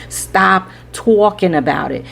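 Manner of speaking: slow, mock New York accent on the command; joking New York accent scolding; faux New York accent. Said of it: "I gotta get in my New York accent".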